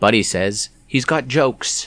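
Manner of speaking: clumsy fake Australian accent, slow. Recapping a trash-talk exchange, quoting one of the rivals in a bad Australian accent. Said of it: "that was a bad Australian accent".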